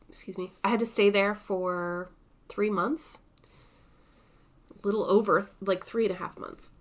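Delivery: interrupted by hiccups. Real, not acted. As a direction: speak while hiccupping. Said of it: "I have the hiccups".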